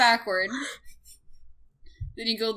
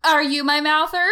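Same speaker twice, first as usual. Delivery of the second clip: cutesy character voice; 5 semitones higher, 4 dB louder than usual. Acted. Joining the tongue bit.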